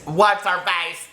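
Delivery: playfully drawn-out mom phrase; slow, hammed-up echo of mom; like her mom. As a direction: stretch it out, lightly mocking mom. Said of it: "That's so my mom".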